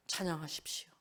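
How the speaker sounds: soft whisper, gently urging; whispered appeal. Real, not acted. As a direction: breathe it out to the hurting. Quiet appeal to the hurting. (속삭이듯 권하는 찬양하십시오)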